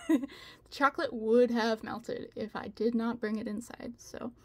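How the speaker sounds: slightly out of breath after stairs. Real, not acted. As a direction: talk a bit winded. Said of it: "I'm a little out of breath".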